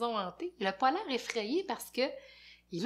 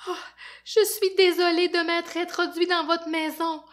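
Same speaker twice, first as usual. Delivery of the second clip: high, loud frantic rhyming rant; panicked babbling; 8 semitones higher, 10 dB louder than usual. Acted. Fafounet terrified, babbling rhymes at the zombies. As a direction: babble faster and higher in terror. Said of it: "Quand il a peur, il dit n'importe quoi".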